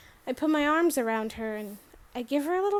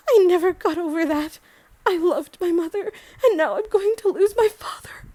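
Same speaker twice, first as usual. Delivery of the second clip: mother quavering with grief, somewhat raised; quavery voice; 4 semitones higher, 5 dB louder than usual. Acted. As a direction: let hurt wobble through the words. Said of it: "her voice got sort of quavery".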